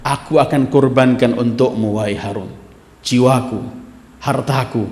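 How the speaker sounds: fearful. Acted. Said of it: "Ketiga kali dia takut".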